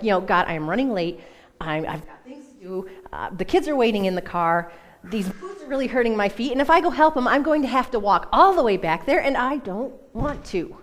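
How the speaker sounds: temper tantrum. Retold or imitated. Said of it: "It was a temper tantrum".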